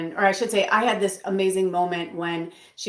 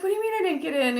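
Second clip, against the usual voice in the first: mock indignant clown; 12 semitones higher, much faster than usual. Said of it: "she changed her voice back to, like, her normal".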